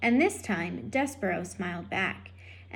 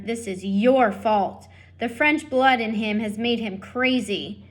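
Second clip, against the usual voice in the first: accusing husband; 4 dB louder than usual. Acted. Lester blaming wife.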